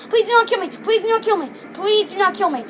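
repetitive begging, like a chant; panicked pleading. Real, not acted. Player begging the game boss for mercy, insistent pleading. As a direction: plead over and over in the same falling tune. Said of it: "I am screaming right now".

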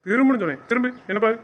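loud, insistent repeat of the order. Acted. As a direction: raise your voice because she ignored you. Repeating the ignored order, louder. (உரத்த குரலில் மீண்டும் கட்டளை)

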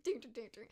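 light ding-ding synth imitation; imitated techno music. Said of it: "it's like this techno music".

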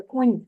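"конь" with a palatalized soft н at the end; soft final n. Shown as a demonstration. Teacher explaining the mark over n, "конь" ending softened. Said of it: "якби з м'яким знаком".

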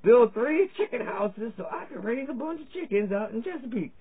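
hammed-up earnest citizen pitching chickens; mock town hall speaker. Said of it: "And they were like".

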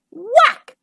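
punchy high whack; loud sound word. A narrator's reading. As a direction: hit it hard and bright.

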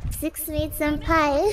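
slow, drawn-out anime line. Pretend. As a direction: stretch it out like an anime girl. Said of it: "in your best anime voice ever".

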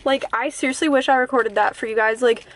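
slightly winded talking; breathless after rushing around; out of breath. Real, not acted. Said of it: "I'm literally out of breath".

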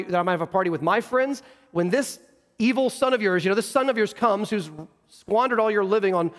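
mildly furious, aggrieved complaint; understated fury at being passed over; indignant older brother. Acted. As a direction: protest to a father with measured, building indignation. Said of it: "He is furious".

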